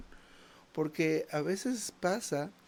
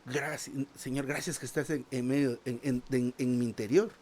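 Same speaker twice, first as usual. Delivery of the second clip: heartfelt prayer. Shown as a demonstration. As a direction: pray it as if you mean it. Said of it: "Y usted dése cuenta".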